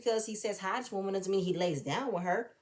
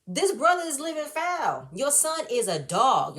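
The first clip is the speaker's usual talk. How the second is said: pleading call; 3 semitones higher, 4 dB louder, slower than usual. Retold or imitated. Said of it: "be like".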